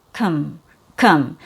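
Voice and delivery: low, neutral "kum" with a schwa; unstressed "kum", jaw not dropped; reduced vowel. Shown as a demonstration. Teacher isolating the first syllable of computer, reduced. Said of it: "schwa or a reduced vowel".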